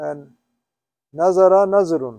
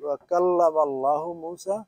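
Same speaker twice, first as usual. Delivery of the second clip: quick recitation; 3 dB quieter, much faster than usual. Shown as a demonstration. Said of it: "দিয়ে এটা বলতে পারো কিনা".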